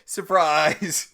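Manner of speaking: loud, high "Surprise!" thrown out for fun; spring it on them like a party reveal; mock surprise reveal. Real, not acted. Host springing a spoiler on her co-host, loud and high.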